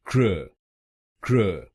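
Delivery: क्र said as a short krə with a reduced vowel; first syllable alone. Shown as a demonstration. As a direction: clip क्र short, no full o. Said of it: "आप इसको बोलिए".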